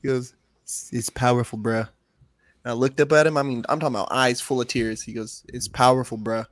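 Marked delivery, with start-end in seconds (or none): 0.6-1.9 put-on light, understated Jamaican accent; imitated Jamaican accent. Retelling his buddy's words as he cried, light Jamaican accent. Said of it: "my buddy who's Jamaican". 5.5-6.4 put-on lightly done Jamaican accent; imitated Jamaican accent. Buddy consoling a tearful dad, light Jamaican accent. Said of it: "my buddy who's Jamaican".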